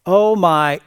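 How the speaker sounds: "Oh my" said loud with the syllable stretched; drawn-out syllable. Shown as a demonstration. Preacher showing slang use of the phrase, "Oh my" elongated. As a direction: lengthen "Oh my," punching it. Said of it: "single syllable seems to get elongated".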